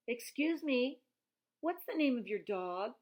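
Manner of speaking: high, loud call through a car window. A narrator's reading. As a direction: call out to a stranger on the roadside. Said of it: "called out to the lady with the dog".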